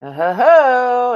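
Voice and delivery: surprised oh ho ho. Real, not acted. Gold test reacts unexpectedly.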